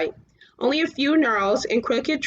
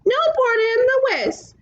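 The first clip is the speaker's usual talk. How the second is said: high, strange cloud-giant voice; 12 semitones higher, 3 dB louder than usual. A narrator's reading. The fiery red cloud face answers in an eerie voice. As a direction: boom it from the sky.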